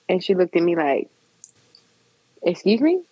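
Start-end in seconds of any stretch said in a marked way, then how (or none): 2.4-3.0 taken aback, rising question; mildly offended. Retold or imitated. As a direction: imitate someone who feels disrespected. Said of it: "looked at me like I had disrespected her".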